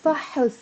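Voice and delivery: فحص as one quick syllable, only a faint vowel after the ح; clipped-together فحص, weak second vowel; one-syllable noun. Shown as a demonstration. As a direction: say فحص short, stressed on the opening fa. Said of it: "look at the difference".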